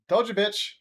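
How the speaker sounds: loud, high-pitched told-you-so; mock triumphant gloating. Winner of a pine tree bet to mother, mock gloating. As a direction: rub the win in, hammed up.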